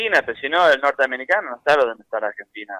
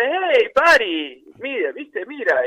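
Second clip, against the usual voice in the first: imitating the singer, higher and very slow; retold singer's greeting, stretched long and higher; singer calling back; 6 semitones higher, much slower than usual. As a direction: draw out a mock hail from the stage. Singer's reply voiced in story.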